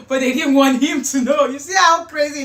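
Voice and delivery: blurting it out, scandalized; excited exclamation. Real, not acted. Outraged gossip about sneaky call.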